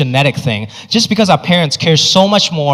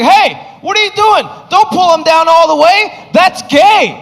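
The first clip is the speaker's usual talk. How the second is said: a bully shouting in disgust at a classmate; shocked bully; 11 semitones higher than usual. Retold or imitated. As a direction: yell it like a scandalized kid. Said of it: "he's like".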